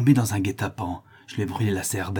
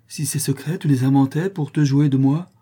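higher and rising to loud; suspicious outcry; 5 semitones higher, 4 dB louder than usual. Acted. Cécilie accuses the notary of lying, rising loud. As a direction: accuse him, growing louder. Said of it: "s'écria tout à coup la créole".

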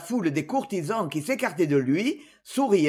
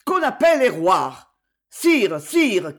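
loud, raised-pitch call for help; urgent yell; 6 dB louder than usual. A narrator's reading. Marshal yelling for the doctor and to the fainting king. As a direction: shout urgently, falling on each call. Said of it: "hurla le maréchal".

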